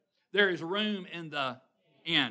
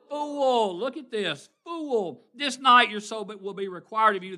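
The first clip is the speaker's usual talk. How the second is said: stern voice of God; 5 semitones higher, 8 dB louder than usual. Acted. God rebuking the rich fool.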